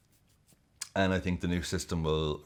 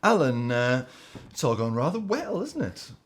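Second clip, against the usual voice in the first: a much higher, plummy English presenter lilt; presenter to his pundit, mock-posh and rising higher; Gary Lineker voice; 5 semitones higher than usual. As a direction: hand over to Alan with a rising television host charm. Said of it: "Gary Lineker to Alan Shearer".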